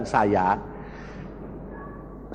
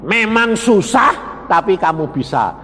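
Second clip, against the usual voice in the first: repeating for emphasis; 2 semitones higher than usual. Shown as a demonstration. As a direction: hammer it home to the room. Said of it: "Nah, weh".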